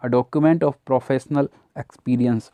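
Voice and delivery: each word spaced out slowly; teacher reading a definition at a crawl; slow dictation. Shown as a demonstration. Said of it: "slow dictated definition".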